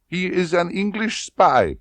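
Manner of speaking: domineering colonel. A narrator's reading. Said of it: "Rosa Klebb revealing".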